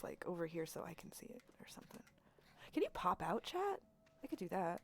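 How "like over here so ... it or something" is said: muttered under her breath to herself; a half-whispered afterthought; whispered aside. Real, not acted. Streamer whispering an aside about the chat box.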